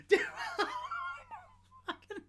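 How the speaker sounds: high, loud cry of disbelief; really can't believe it, yell it; how? shouted high in disbelief; incredulous shout. Real, not acted. Outraged disbelief at the news.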